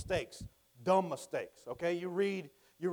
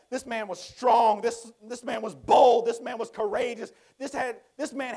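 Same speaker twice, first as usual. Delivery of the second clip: building emphasis; 3 semitones higher, 7 dB louder than usual. Real, not acted. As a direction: drive home his strength.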